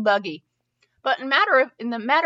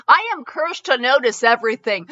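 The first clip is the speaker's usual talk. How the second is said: mock lament; 3 semitones higher, 5 dB louder than usual. Real, not acted. Mock-dramatic self-complaint.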